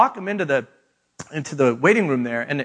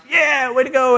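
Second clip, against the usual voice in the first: mock cheer; 8 semitones higher than usual. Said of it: "I'm like".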